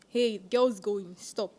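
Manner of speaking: slow, commanding order imitated; mock authoritative command. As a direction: imitate a senior girl giving orders, drawn out. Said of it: "she had this authoritative voice".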